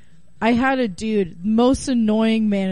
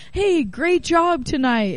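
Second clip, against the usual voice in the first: high, slow, laughing mock compliment; mock praise; 7 semitones higher, slower than usual. Comedians thanking the naked dancer, high and slow. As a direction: sing out a fake compliment. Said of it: "People in comedy are like".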